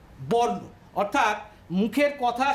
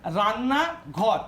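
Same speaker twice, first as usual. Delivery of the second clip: রান্নাঘর said slowly with a rise, রান্না and ঘর apart; রান্নাঘর slow, parts separated; slow, split apart; much slower than usual. Shown as a demonstration. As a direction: draw out রান্নাঘর part by part. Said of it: "রান্নাঘরের ক্ষেত্রেও তাই".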